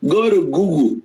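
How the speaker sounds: a light British accent on Go to Google, Google said as "Guugul". Shown as a demonstration. Host redoing the line for viewers in a light British accent. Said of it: "let me use the British accent".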